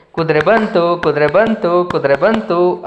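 put-on sing-song chant of a gleeful kid; happy child. The child playing with the wooden horse, chanting gleefully. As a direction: chant it while bouncing with joy. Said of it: "ಕುಣ್ದಾಡ್ಕೊಂಡು ಆಟ ಆಡ್ತಾ ಇತ್ತು".

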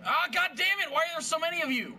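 loud exasperated outburst; frustrated yell. Real, not acted. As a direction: yell at the swarm of enemies.

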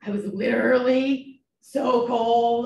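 slow mocking kid voice, stress on literally. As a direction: drag out literally like her kids. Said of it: "I get mad at my kids for using the word literally".

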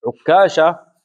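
عكاشة with a doubled, held k: ʕuk-kaasha; doubled kaf. Shown as a demonstration. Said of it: "بالتشديد". (عكاشة بتشديد الكاف)

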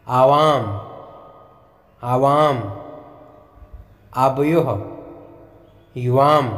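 each word set apart, slow and clear for students to echo; teacher pronouncing आवाम, वयम, माम one by one, slowly, for the class to repeat; slow repeat-after-me drill. Shown as a demonstration. Teacher leading students through Sanskrit pronouns, slow repeat-after-me. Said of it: "मैं आराम आराम से बोलूँगा".

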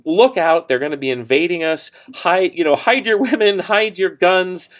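hollering a warning, half-acted; mock shout. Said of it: "shouting that".

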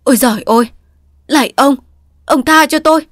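high, loud panicked shriek for mercy; terrified cry. A narrator's reading. Addict in withdrawal shrieking at an imagined attacker, terrified. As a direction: cry out in terror as if beaten. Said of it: "rú lên".

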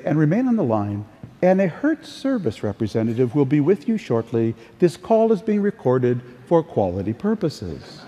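lightly imitated phone-system recording; a hint of automated customer-service patter. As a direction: mildly mimic a recorded hold message. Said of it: "Got the automated voice on the line".

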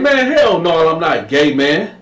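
high indignant denial; high offended voice; Sweet Lo denying. Retold or imitated. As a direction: protest too much. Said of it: "Sweet Lo was like".

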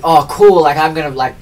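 loud, delighted burst over a thrift find; thrilled at the Magic Eight Ball in the op shop; excited gush. Retold or imitated. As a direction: gush like you just found treasure. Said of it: "And I was like".

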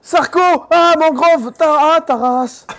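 scared horror game streamer. Real, not acted. Fleeing crocodile in swamp.

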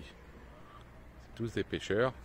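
slow, hushed whisper of a correction; slow whispered self-correction; whispered aside. Real, not acted. Corrects own wording, drops to aside.

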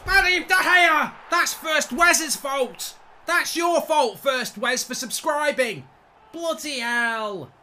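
furious shouting at the game; raging gamer. Real, not acted. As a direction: yell in real frustration. Streamer raging at goalkeeper.

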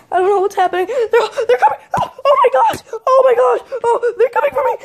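rising pitch, laughing through fake fear; half giggling as the monsters close in; nervous laughing panic.

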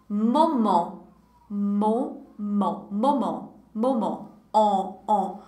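French "moment" with a nasal "on" sound, lips rounded; model pronunciation. Shown as a demonstration. Teacher models "moment" for the class, lips rounded. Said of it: "Répétez après moi".

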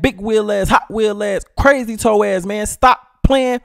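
loud high yelling dad; angry father. Acted. Father in a wheelchair yelling at the stranger, loud and high. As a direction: tell him off for messing with your kid.

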